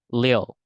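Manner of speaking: little with the T dropped; American little without T. Shown as a demonstration. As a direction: say little as "lil", no T. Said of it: "without T".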